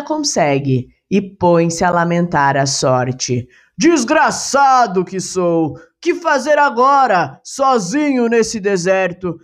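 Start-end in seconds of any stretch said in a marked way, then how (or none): 3.8-9.4 a stranded farmhand wailing at his bad luck; despairing carter.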